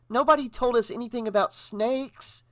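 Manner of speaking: high anxious woman's voice; worried, high-pitched protest; fearful. A narrator's reading. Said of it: "said Brenda fearfully".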